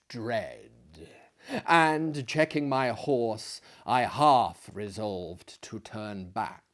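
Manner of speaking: measured storytelling voice, unhurried; story narration. Acted. Reading Poe's tale to his listeners, measured storytelling. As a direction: read it like a fireside tale. Reads Poe story aloud.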